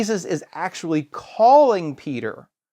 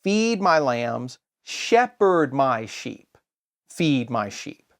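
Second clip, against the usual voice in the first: slow emphatic rendering; 2 semitones lower, much slower than usual. Shown as a demonstration. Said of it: "it means".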